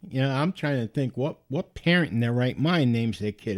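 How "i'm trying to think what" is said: ordinary talk, nothing marked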